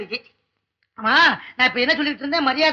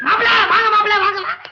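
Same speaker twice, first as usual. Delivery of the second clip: effusive welcome; 6 semitones higher, 3 dB louder than usual. Acted. Clerk hails boss as son-in-law.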